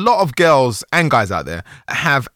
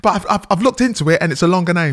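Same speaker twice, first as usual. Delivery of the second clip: higher teasing imitation; mocking quote; 9 semitones higher, 3 dB louder, faster than usual. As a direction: parody her backtracking. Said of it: "and then say".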